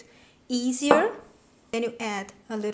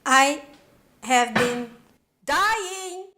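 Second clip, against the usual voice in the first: overexcited yell; 3 semitones higher, much slower than usual. Real, not acted. Chef yelling to viewers about her salad, overexcited shout. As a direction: yell out how badly you want to taste it. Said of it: "So sorry for yelling at you guys".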